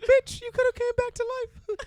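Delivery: put-on cartoon mouse voice. Acting out a court fight with Scarlett Johansson: playing Mickey Mouse. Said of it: "and Mickey Mouse like".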